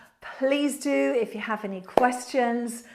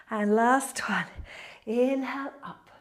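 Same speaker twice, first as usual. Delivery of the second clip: yoga instructor cueing. Acted. Leads a yoga flow.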